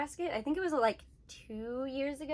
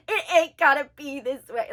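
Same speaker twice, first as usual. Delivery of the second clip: loud, lightly done hillbilly imitation; a touch of mocking hillbilly; 2 semitones higher, 8 dB louder than usual. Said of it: "hillbilly English".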